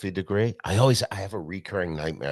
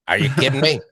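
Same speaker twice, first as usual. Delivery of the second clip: 1 mock outrage; 7 semitones higher, 8 dB louder, faster than usual. Outraged phone call, retold.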